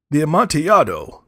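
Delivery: loud, high astonished exclamation; astonished cry. A narrator's reading. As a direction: blurt it out in shock. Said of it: "ejaculated my friend".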